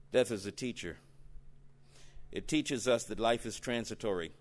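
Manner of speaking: quiet earnest sermon voice; sudden hush. Real, not acted. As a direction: drop to an intimate hush. Preacher drops after climax.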